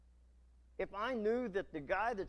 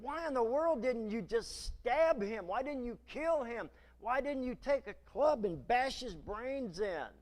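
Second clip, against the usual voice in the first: raised, pressing voice of David's men; angry men; 5 semitones higher than usual. Acted. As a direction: demand it of David, higher.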